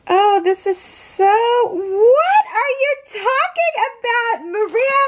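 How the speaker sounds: very high squeal of disbelief; overwhelmed, near tears. Real, not acted. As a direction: squeal it, between laughing and crying. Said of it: "I'm gonna start crying".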